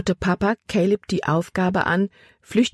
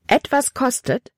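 much higher, startled cry on Etwas; alarmed exclamation; 8 semitones higher than usual. Acted. Libby, shocked by Caleb's words, cries it out high. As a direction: Etwas kostet? thrown out high and sharp in alarm. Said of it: "rief Libby aus".

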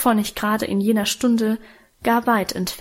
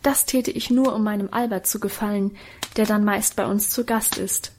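ordinary delivery

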